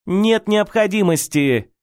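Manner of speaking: high-pitched slow mock shriek; shrieking mother. A narrator's reading. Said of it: "завизжала Николета". (визгливо, с обидой)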